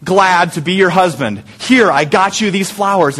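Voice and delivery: husband bringing flowers to his tired wife, doting and tender; sweet loving husband. Retold or imitated. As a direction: gush it like a smitten husband. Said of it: "And, and I say".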